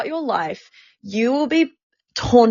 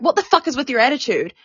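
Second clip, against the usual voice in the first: higher, quick imitation of a hostile boss; retold angry challenge; 5 semitones higher, faster than usual. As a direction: act out an accusing manager. Retold manager attacks her.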